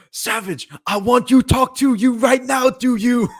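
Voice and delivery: high, loud slurred sing-song; slurring like a town drunk. Retold or imitated. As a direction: slur it like a hurt throat. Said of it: "slurring his words".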